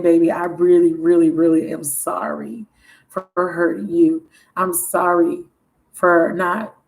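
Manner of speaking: lightly voiced apologetic lover; a hint of a smooth-talking man saying sorry; alter ego voice. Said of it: "use my other alter ego voice".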